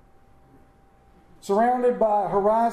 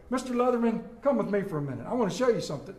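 Scottish brogue; much faster than usual. Retold or imitated. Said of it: "He said in Scottish brogue".

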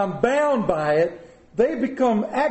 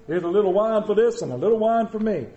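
imitating TV chef; faster than usual. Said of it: "I watch him".

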